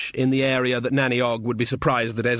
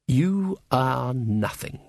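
contemptuous elf look; much slower than usual. Acted. The Queen's look passing judgement.

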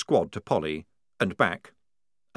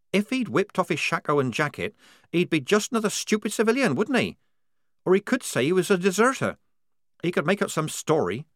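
put-on angry young soldier girl; 9 semitones higher than usual. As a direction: spit out the blame. Polly voiced.

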